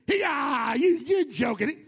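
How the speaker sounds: hammed-up derisive jeer; mocking. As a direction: play at scoffing in someone's face. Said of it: "Elijah mocked them".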